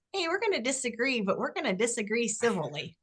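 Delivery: breezy, wrong way to say it; casual take that undercuts the message; unserious take. Shown as a demonstration. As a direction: say it too lightly, not like a leader. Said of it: "Listen to the difference".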